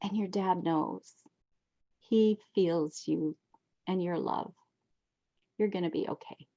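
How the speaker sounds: a quiet stranger reassuring her; gentle reassurance. Retold or imitated. Stranger soothing a grieving woman, softly reassuring. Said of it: "the person said".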